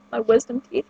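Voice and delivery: repeating it around the candy; trying again with candy in mouth; sucking a hard candy. Real, not acted. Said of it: "I can't talk with candy in my mouth".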